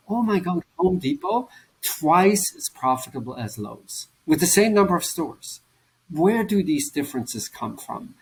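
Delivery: sudden high-pitched gasp of surprise at Home Depot; amazed discovery. Retold or imitated. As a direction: sound floored by the numbers. Discovering surprising data about companies.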